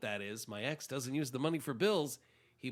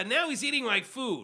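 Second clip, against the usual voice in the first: rising outrage; 9 semitones higher, 5 dB louder than usual. Retold or imitated. Letter writer's mounting outrage.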